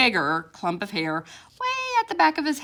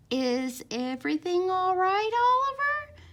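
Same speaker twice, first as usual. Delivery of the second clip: calm whisper; 11 semitones higher than usual. A narrator's reading. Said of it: "she whispered in her calmest, calm mom voice".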